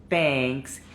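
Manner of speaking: thanks with a wide Spanish E, jaw dropping. Shown as a demonstration. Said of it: "como una E, como la decimos en español".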